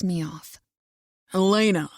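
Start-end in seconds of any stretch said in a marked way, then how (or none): 1.3-1.9 calling after. A narrator's reading. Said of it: "he calls after me".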